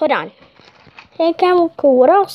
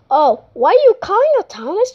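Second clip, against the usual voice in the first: fast, higher, eager question; excited operator; 5 semitones higher, faster than usual. Pretend. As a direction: rush it out eagerly. Operator asks Thomas on the phone.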